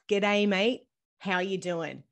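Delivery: slow, careful Australian "G'day, mate. How you doing?"; Aussie greeting, said slowly. Shown as a demonstration. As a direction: model the Australian slang slowly for a child to copy. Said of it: "I'll say it slowly".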